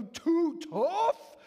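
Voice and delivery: put-on loud, high child's triumphant shout; excited kid shout. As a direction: burst out like a thrilled child. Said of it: "explode with excitement".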